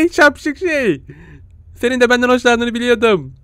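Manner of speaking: high coy flirting voice; mock flirting. Gamer coyly flirting with the cute creature.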